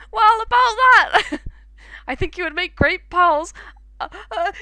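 high, loud, eager skeleton; hammed-up cheerful skeleton calling a friend. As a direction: boom it out like an overexcited skeleton. Voicing Papyrus's phone dialogue.

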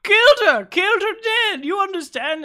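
very high, loud creature shriek; high, loud, panicked familiar; shrieking cub. Acted. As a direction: scream it like a frantic little beast. Cub screams news.

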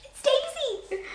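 high, slow called-out answer; a high, drawn-out call. Acted. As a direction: call the name across the crowd. Friend calls out news.

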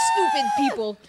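high, loud cackle at the fools; villain's gleeful cackling sneer; mocking laugh. Thief mocking fleeing people.

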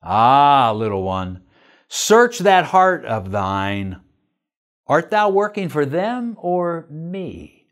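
low, slow, gentle fatherly reply; tender. Acted. The Father gently answering his reluctant servant, tender. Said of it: "He answered me tenderly".

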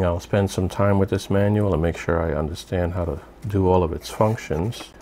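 ordinary talk

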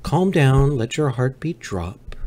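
loud, slow, commanding calm; aggressive ASMR. Pretend. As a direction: shout the relaxing words. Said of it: "we relax".

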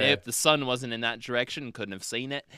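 matter-of-fact imitation of the pilot; full confidence. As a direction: rattle off the facts without any doubt. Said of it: "just, like, full confidence".

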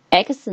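second X said as the sound ks, no letter name. Shown as a demonstration. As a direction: make X a quick k plus s. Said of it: "发这个X的音".

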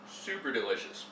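talking with a mouthful of tuna; mouth full. Real, not acted. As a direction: say it through a mouthful. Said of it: "not to eat with my mouth full".

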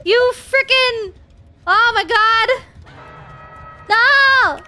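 exasperated outcry. Real, not acted. Player attacked by Zen, exasperated outcry. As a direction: cry out at a traitor, words stretched.

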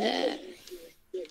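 sudden high crack mid-word. Real, not acted. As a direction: voice cracks upward on uh. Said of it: "what was that voice crack?".

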